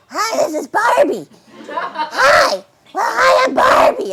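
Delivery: high, loud, overdone imitation of a Barbie knockoff; mock the copycat Barbie voice, laughing through it; fake Barbie soundalike. Voice actress mocking the soundalikes, high laughing fake Barbie. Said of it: "weird voices trying to sound like me".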